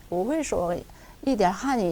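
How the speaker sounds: 我会说一点汉语 slowly, tones kept clear; 我会说一点汉语 said word by word; 我会说一点汉语 천천히 성조대로; slow tonal demo. Shown as a demonstration.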